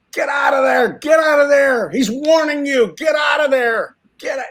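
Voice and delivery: high, strained shouts of alarm; imitated screaming warning. Cowboys warning the film crew, screaming in panic. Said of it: "they're all screaming".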